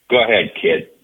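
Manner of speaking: imitating a gruff old ballplayer, curt; grudging, gruff go-ahead; brusque retold brush-off to a youngster; gruff imitation. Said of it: "And in his gruff way".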